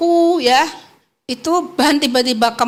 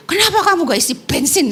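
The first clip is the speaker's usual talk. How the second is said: mildly angry retort; 5 semitones higher, faster than usual. Retold or imitated. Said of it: "Marah-marah lah".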